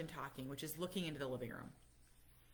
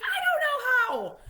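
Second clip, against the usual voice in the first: high, loud, slow laughing wail; friend's panicked wail; 15 dB louder than usual. Retold or imitated. Friend admitting she can't set password, laughing wail. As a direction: imitate the friend's helpless panic.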